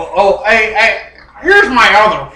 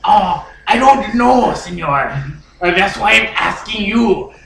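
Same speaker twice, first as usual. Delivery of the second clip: lightly put-on Cuban accent; 3 semitones lower than usual. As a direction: chat as a Cuban character, accent on. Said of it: "I'm from Cuba".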